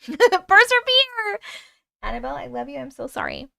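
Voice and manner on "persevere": slow and loud, drawn-out rally; mock rallying cry. Cheering herself on through a distraction, loud and slow. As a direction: cheer yourself on, stretched out. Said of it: "I'm getting really distracted".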